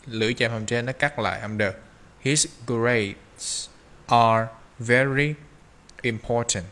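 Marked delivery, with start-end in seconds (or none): 2.2-6.6 very stretched and slow; stress on very. Shown as a demonstration. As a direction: lean on "very", draw it out slowly. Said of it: "Thì vào câu nó có thể là very".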